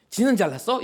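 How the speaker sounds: scornful jab at the preacher; mocking retort. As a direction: throw it back sarcastically. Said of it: "이런 말".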